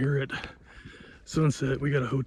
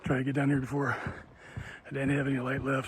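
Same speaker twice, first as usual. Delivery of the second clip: out of breath; 4 dB quieter than usual. Real, not acted. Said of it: "I'm completely out of breath".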